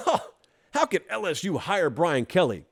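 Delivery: scoffing laugh, then an incredulous question; hammed-up derisive disbelief; foolish mocking laughter. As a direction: imitate a foolish doubter laughing it off. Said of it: "The first group laughed foolishly and said".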